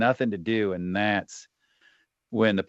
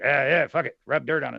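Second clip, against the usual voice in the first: lightly voiced tough pirate, a bit higher; 6 semitones higher than usual. Mimicking how vets talk, a hint of pirate. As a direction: toss it off like a gruff pirate, half joking. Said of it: "like a pirate".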